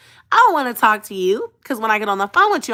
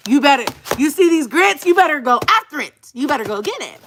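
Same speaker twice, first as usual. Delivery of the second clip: emphatic urging; 7 semitones higher, 4 dB louder than usual. Real, not acted. Urging listeners loudly.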